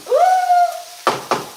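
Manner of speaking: high excited ooh at the sizzle; delighted ooh. Real, not acted. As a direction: squeal with delight at the food. Reacting to pan sizzle.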